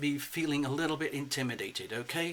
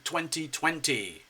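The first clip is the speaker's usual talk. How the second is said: presenter voice. Pretend. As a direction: present the gift like a game-show host. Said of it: "the present is like".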